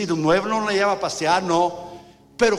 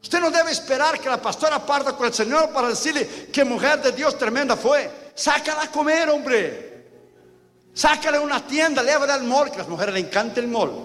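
higher, urging the church to act; high, insistent exhortation; raised preaching; 6 semitones higher than usual. Acted. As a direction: lift the voice and exhort them. Preaching at full force.

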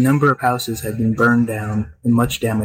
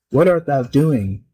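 slow, stern questioning; slow it down, weigh each word; stern demand; slower than usual. Acted. Rabbi confronting the monster at the door: slow stern demand. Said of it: "demanded the rabbi sternly".

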